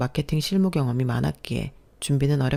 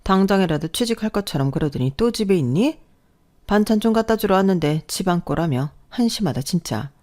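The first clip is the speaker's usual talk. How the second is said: a scornful older mother-in-law, lightly voiced; nagging mother-in-law; 4 semitones higher, 3 dB louder than usual. Mother-in-law nagging her jobless daughter-in-law, scornful.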